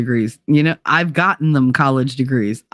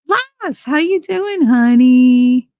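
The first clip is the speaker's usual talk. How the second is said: put-on failed Cockney accent; 10 semitones higher, 3 dB louder, much slower than usual. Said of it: "deep Cockney accent".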